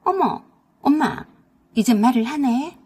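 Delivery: a jolted gasp of surprise; startled. Acted. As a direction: daughter startled that her mother speaks. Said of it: "화들짝 놀라며".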